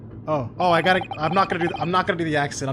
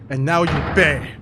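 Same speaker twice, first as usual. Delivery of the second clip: a hammed-up foreign accent, rolling the r in Criminal; a reluctant put-on accent ending on a loud Criminal; mock accent; 4 dB louder, slower than usual. Streamer voicing the prosecutor, in a hammed-up accent. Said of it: "So you can tell it's an accent".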